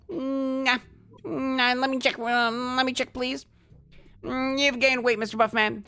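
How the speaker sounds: lightly voiced high doorman boxer; Mike Tyson. Doorman Mike Tyson checking the card, lightly voiced high. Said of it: "I don't know how to do a Mike Tyson accent".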